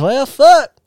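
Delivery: high, loud exasperated Groot. Retold or imitated. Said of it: "then he goes".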